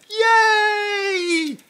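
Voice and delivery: high, loud whoop of delight; squealing yay over the new gauges; joyful cheer. Real, not acted. Celebrating numbered measuring gauges.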